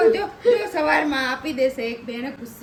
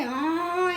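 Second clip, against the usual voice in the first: drawn-out, raised bleat like a little calf; imitated calf bleat; 4 semitones higher than usual. Parent teasing the child about the noise made, imitated calf bleat. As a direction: mimic a baby buffalo calling "aa". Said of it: "ઓલી નાની પાડી બોલે".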